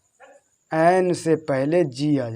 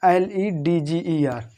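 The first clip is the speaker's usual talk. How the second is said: slow spelling; much slower than usual. Shown as a demonstration. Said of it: "लेगर".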